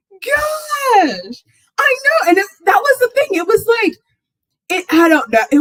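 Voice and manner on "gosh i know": high, teary laughing cry; laugh-crying exclamation. Real, not acted. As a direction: squeal it out mid-laugh. Still laughing over the game.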